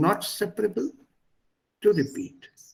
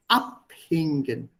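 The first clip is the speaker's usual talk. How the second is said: "Abhängen" said slowly, weight on AB; stress on prefix; slower than usual. Shown as a demonstration. Teacher giving another separable example, prefix stressed. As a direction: stretch "Abhängen", stressing its first syllable AB.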